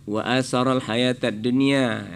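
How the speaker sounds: wa asaral with the A held long; recite, stretching the A in asaral. Shown as a demonstration. Judge teaching the child the verse, long A in asaral. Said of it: "A-nya panjang".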